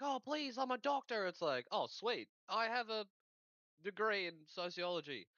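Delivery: high, prissy "I'm a doctor"; mock pompous survivor. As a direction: play a smug academic, hammed-up. Survivors bragging about degrees.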